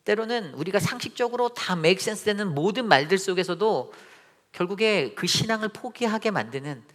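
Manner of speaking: high, urgent pulpit voice; sustained, heightened sermon delivery; impassioned preaching. Real, not acted. Preaches with raised voice.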